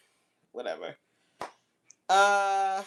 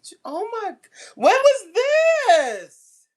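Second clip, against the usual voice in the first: sudden high yelp of surprise; high startled exclamation; startled cry; 11 dB louder than usual. Real, not acted. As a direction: break off in a shocked cry. Startled outburst mid-story.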